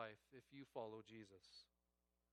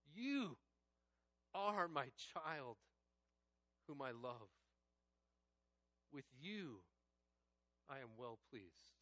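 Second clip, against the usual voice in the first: tender reading; slower than usual. Shown as a demonstration. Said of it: "I just invite you to close your eyes".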